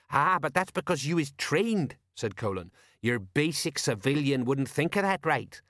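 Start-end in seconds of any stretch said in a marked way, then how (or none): 0.1-2.0 know-all sergeant; higher-pitched, explaining character voice; Colon. Acted. 3.0-5.6 smug know-all sergeant; pleased with himself, slowing to ponder; higher character voice, wise to it all; Colon. Acted.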